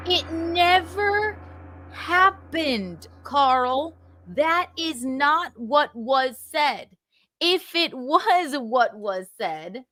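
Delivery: very slow, heavily spaced words; insistent denial. Real, not acted. Man answers Carl's claim about their conversation, insistent denial. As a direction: spell it out word by word, drawn out.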